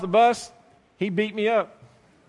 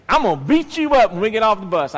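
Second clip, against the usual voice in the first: bully's threat; 6 dB louder than usual. Retold or imitated. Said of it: "Old John said".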